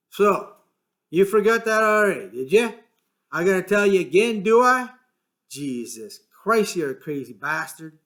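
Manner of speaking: snapping at Lenny; irritated George. A narrator's reading.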